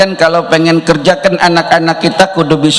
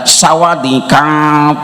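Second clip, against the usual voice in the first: Thai greeting; much slower than usual. Retold or imitated. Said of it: "dia pakai bahasa Thailand".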